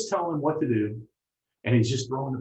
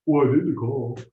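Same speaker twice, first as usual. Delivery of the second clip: louder, protesting student; eager beginner defending himself; defensive novice; 4 dB louder than usual. Retold or imitated. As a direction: insist you did everything already. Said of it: "like any novice".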